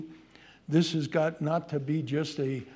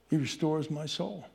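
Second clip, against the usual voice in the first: softer, reverent murmur of the verse; hushed reverent verse; 5 dB quieter than usual. Acted. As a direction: bring it down to a tender hush.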